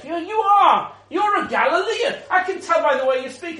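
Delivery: pointed mock accusation, pitched well up; acted accusation. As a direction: play a servant girl loudly calling someone out. Servant girl accuses Peter, acted.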